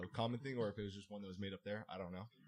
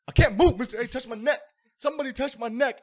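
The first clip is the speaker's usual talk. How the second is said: higher, loud pleading whine; loud whiny plea; 13 semitones higher, 16 dB louder than usual. Retold or imitated. Student refusing to move tells teacher, loud whining plea. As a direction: beg the teacher like a stuck kid. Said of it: "He's like".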